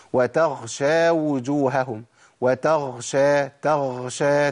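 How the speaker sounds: "وتغشى" with air on the غ; breathy ghain demo. Shown as a demonstration. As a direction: push breath through غ in "وتغشى". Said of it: "الخطأ فين يا عم الشيخ؟ اسمع". (نفس مسموع مع الغين في "وتغشى")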